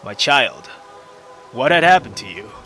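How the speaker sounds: put-on gentle cleric calling out to a hurt girl; old priest. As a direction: speak as a caring old priest.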